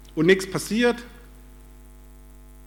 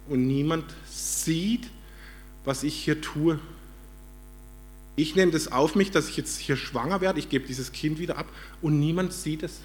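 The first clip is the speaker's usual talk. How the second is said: imagined loving voice; 5 dB quieter than usual. Retold or imitated. Hagar alone in the desert speaks to herself, gently resigned. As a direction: lightly act a quiet, loving resignation. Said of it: "ihre Sprache ist der Liebe".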